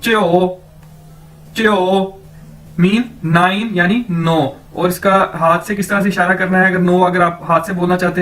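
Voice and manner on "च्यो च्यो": च्यो as one glide like Punjabi प्यो; Chinese jiu. Shown as a demonstration. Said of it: "उसी तरह से आपने ये बोलना है च्यो".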